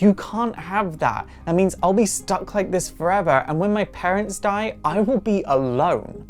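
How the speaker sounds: a touch of desperate protest; mock distressed plea. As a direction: lightly act a girl begging not to lose everything. Acted plea of frightened girl.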